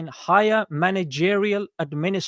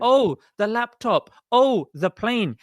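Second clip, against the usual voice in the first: slow, higher sneering parody; mock his words with a higher, slow sneer; mocking quote; 4 semitones higher, slower than usual. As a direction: drag it out to ridicule him. Mocking opponent's claims.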